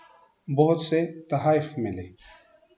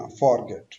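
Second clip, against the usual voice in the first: फॉरगेट stressed on फॉर, falling गेट; wrong stress; 3 semitones lower than usual. Shown as a demonstration. Teacher repeating the mistake, फॉरगेट stressed on फॉर. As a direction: lean on फॉर, drop गेट. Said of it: "आपने नहीं बोलना".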